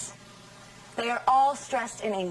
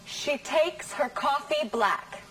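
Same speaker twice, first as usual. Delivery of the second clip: slow, with takes, coffee and black punched; teacher stresses takes, coffee and black, slowly; stressed words; 3 semitones higher, slower than usual. Shown as a demonstration. Teacher reads the example to the class, stressing key words. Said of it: "Which words are stressed in this sentence?".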